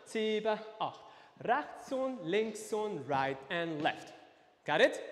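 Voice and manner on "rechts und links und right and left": a bit faster. Shown as a demonstration. Dance teacher speeding up the steps, a bit faster. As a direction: step count a little quicker, still measured. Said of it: "Ein bisschen schneller".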